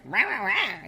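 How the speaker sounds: mock snarling "rah rah" noises; mock bitchy. Woman mimicking her harsher old self, mock bitchy. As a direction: imitate your old harsh nagging. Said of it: "I used to be really bitchy".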